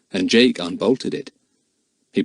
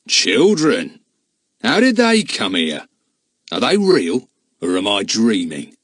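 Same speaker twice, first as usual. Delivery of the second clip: astonished; 4 dB louder than usual. A narrator's reading. Man startled at finding children.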